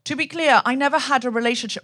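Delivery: lightly imitated Slovenian-accented cadence; Melania Trump. Quoting the first lady's speech, half-suppressed Slovenian accent. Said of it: "I'm trying not to do the accent".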